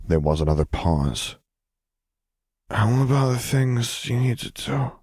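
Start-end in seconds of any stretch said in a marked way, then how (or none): 2.7-5.0 put-on sleepy child. A narrator's reading.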